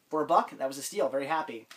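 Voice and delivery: congested, sniffly voice; talking through a head cold; stuffy nose. Real, not acted. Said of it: "sorry that I'm all congested and sniffing".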